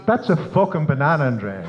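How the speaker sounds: mildly exasperated retort, retold; a touch of worn-out parental impatience; fed-up father. Hungover dad answering his daughter's endless question, mock exasperated. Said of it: "he'd had enough of it".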